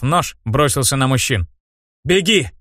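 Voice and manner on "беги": sharp, higher bark; barked order. Acted. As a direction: snap out the order to run. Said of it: "рявкнул вору".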